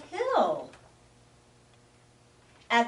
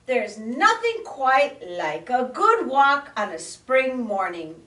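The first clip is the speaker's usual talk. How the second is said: proclaiming; 5 semitones higher, 4 dB louder than usual. Acted. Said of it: "proclaimed Possum".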